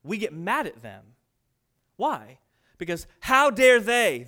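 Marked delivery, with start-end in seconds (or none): 2.8-4.2 slow, loud indignant outrage; mock the offended sinner's outrage, slowly; indignant how dare they. Preacher voicing the offended sinner, slow loud indignation.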